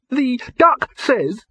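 squeaky little rabbit reporting back; high bunny voice. Acted. Rabbit relays duck.

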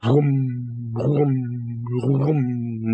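drawn-out, resonant imitation of a far-off whoosh; distant vroom. A narrator's reading. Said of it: "There was a distant".

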